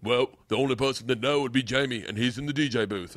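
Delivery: lightly put-on Australian voice; Australian accent. Pointing the comic to the DJ, mock Australian accent. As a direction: imitate an Australian club worker. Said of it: "I think I'm doing Australian".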